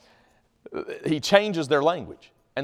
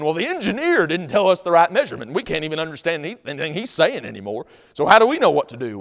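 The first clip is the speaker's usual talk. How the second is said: acted defensive protest, raised voice; mad at the engineer; 5 semitones higher, 7 dB louder than usual. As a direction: protest like a fed-up bricklayer. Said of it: "They're mad at each other".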